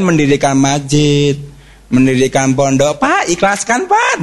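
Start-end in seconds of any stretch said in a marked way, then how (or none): 3.0-4.2 high pleading whine of a donation collector; mock pleading beggar; mock begging plea. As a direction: beg for donations in a sing-song. Mimicking mosque donation beggars.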